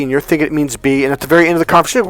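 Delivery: ordinary talk, nothing marked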